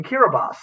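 Kiribati said "kira-bahs"; "Kiribati" with the last syllable as "bahs"; local pronunciation. Retold or imitated. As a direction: say Kiribati ending in an s sound. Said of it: "told me they came from".

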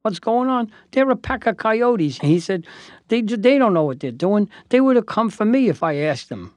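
imitating an indignant elderly client; retold indignant rant. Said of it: "Jack says".

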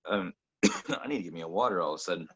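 throat catching between coughs; coughing fit. Real, not acted. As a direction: talk through a tickly cough.

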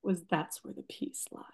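holding back tears while she speaks; getting emotional. Real, not acted. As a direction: voice high and tight with real emotion, near tears. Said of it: "oh, I'm getting emotional".

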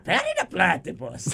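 a hint of the mad scientist spotting his nemesis; hammed-up villain greeting; Doofenshmirtz impression. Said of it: "sound like Doctor Doofenshmirtz".

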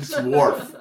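"wharf" with a clear r; emphatic rhotic "wharf"; pronounced r. Shown as a demonstration. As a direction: sound the r in "wharf" loudly. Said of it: "Not like wolf".

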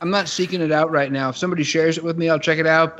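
talking with food in mouth; words round a mouthful of food; mouth full. Real, not acted. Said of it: "You sound like you're eating soup".

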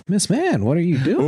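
high-pitched call. Acted. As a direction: pitch jumps up on Miss Man. Repeated call, second higher.

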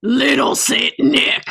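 a drawn-out dramatic yell of the title; hammed-up shout. Cohost reads the song lyrics as a shouted dramatic refrain.

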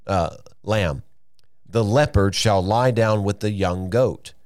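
slow, measured Bible reading; scripture reading. Acted. Preacher reading a prophecy from Isaiah to listeners, measured scripture reading. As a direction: read the verse out deliberately, each phrase set apart. Reads the verse aloud.

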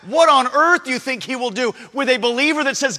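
ordinary talk, nothing marked

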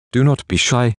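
firm command, pitch up. Acted. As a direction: order him not to be shy. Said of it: "she commands".

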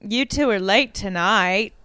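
put-on odd, half-Southern accent, drawn out; Misha Barton. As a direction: lightly mimic a stilted Southern line reading. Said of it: "Misha Barton's voice this entire movie".

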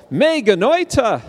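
high, emphatic cry of protest; big swooping exclamation for the audience to copy; exclaimed like "oy gevalt". Shown as a demonstration. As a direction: cry it out high, as a Yiddish-style lament. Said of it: "say it like, Oi gewalt".

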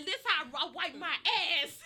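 mock prim. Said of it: "you lovely Mimi say".

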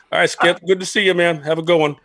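breezy sign-off. Retold or imitated. Acts himself cheerfully backing out.

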